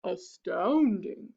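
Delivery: lightly voiced, awed monster; astounded Gruffalo. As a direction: draw the word out in amazement. Gruffalo marvels at the mouse.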